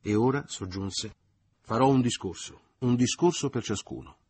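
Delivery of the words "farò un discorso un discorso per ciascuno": louder and higher, pompous host; grand announcement. A narrator's reading. Leo announcing toasts to the family, loud and pompous. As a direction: hold the table's attention.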